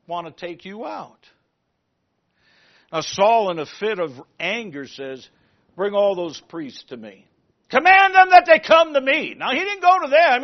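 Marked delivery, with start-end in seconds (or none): 5.7-10.4 loud higher commands; commanding king. Acted. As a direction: order them to come.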